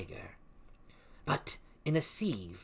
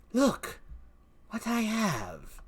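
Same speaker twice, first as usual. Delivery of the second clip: high, gleeful show-off; excited witch cackle voice; 10 semitones higher, slower than usual. Acted. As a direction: crow about the prize. Witch shows a prize.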